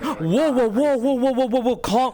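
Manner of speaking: mock soothing whoa whoa; people calming her down. Friends soothing the angry character, mock placating. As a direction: hold your hands up, talk her down. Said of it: "people start going".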